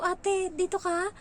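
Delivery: high, slow surprised greeting; mimicked greeting. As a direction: call out to her, pleasantly surprised. Retelling chat with fellow applicant.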